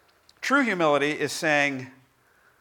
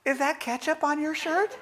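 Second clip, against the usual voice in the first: higher, laughing as she asks; amused surprise; 11 semitones higher than usual. Retold or imitated. Wife spotting ketchup on his shirt, laughing surprise. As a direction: catch him out with a laugh. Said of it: "Lori looks over and she goes".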